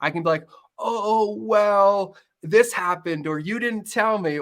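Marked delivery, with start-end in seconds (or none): 0.8-3.3 higher, hammed-up dodging voice; mock defensive excuse. Husband dodging blame with his wife, mock defensive. 3.4-4.4 higher, slow whiny accusation; mock blame shift. Husband blaming his wife for the forgotten chore, mock whiny.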